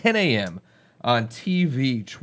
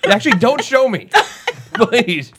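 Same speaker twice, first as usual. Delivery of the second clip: laughing in disgust, higher and louder; grossed-out laugh, begging; disgusted laughter; 9 semitones higher, 8 dB louder than usual. Real, not acted. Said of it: "that was nasty".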